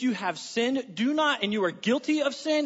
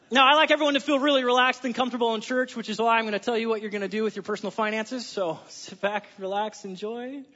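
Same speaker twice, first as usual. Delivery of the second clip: dripping sarcasm. Pretend. Pastor teasing his church about money, sarcastic. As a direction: fake reassurance, tongue in cheek. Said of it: "That was dripping in sarcasm".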